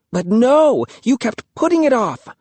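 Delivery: very high, sarcastic reproach; mocking. A narrator's reading. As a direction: needle the brother for his delay. Sister mocking brother.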